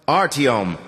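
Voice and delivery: rusty cracked voice. Acted. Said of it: "the rusty, cracked voice repeated".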